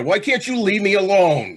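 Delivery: begging, close to breaking; frantic cry to be left alone; desperate plea. Acted. Condemned man cracking under pressure.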